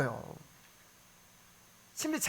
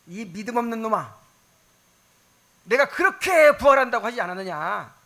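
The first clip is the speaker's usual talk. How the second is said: loud, rising scolding; stern reproach growing to a shout; rebuking; 3 semitones higher, 8 dB louder than usual. Pretend. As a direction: rebuke the doubter, building louder. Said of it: "하고 막 책망하고".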